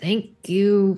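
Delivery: forced through clenched, gritted teeth. Voicing their tough character who never shows pain, saying thanks through gritted teeth. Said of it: "gives this like through gritted teeth".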